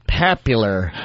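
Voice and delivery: "Popular" said low, with the announcer's affected vowel; mocking the announcer. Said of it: "I hate the way the guy goes".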